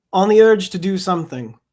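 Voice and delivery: measured, deliberate poem recital; poetry reading. Acted. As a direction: give each line its weight, unhurried. Starts reading another poem.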